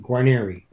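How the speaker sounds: GUARNIERI with a final "ee" sound; own surname pronunciation. Shown as a demonstration. Guest answering how he pronounces his surname, pronunciation demo. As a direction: say "Guarnieri" ending in "-ee". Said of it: "How do you pronounce your last name?".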